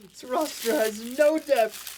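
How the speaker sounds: loud, high, drawn-out imitation tirade; mock yelled rant. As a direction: yell it slowly, hamming up the outrage. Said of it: "he really laid into him".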